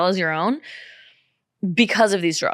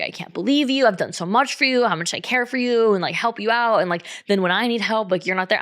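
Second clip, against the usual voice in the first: mock his wounded protest, pitched up; losing his mind. Man losing his mind at the woman refusing him, imitated. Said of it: "losing his mind over this".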